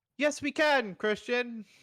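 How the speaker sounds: loud, deliberate, drawn-out yell in character voice. Voicing a character answering Christian at a group meeting: yelling in character. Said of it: "Why are we yelling?".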